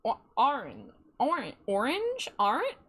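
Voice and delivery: puzzled alternation between AR and OR in ORANGE; testing pronunciations. Shown as a demonstration. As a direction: try ORANGE as "ar-inj" and "or-inj". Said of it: "I've always said orange".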